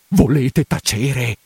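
slow, firm, contained command; stern hush. Acted. Priest telling housekeeper to stop, firm hush. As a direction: cut her off firmly. Hushes her, first time.

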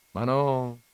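gentle reassurance with a smile; smiling reply. A narrator's reading. Christ answers Don Camillo from the altar, smiling. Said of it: "rispose sorridendo il Cristo".

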